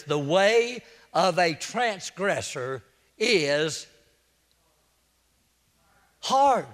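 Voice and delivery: slow, drawn-out verse with a long pause before "hard"; dramatic pause. Real, not acted. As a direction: stretch out "The way of a transgressor is", hold, then land "hard". Preacher quoting a verse for emphasis.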